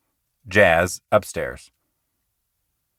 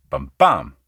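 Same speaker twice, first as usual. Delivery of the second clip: low da-DUM beat; "bum bum" sung low, the second "bum" stressed; iamb rhythm; 8 semitones lower than usual. Shown as a demonstration. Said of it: "like the iamb".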